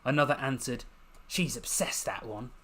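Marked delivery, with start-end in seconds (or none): 1.3-2.5 strained haughty tone. Acted. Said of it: "straining for a haughty tone".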